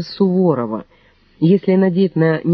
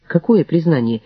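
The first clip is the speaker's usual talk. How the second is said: plain reading voice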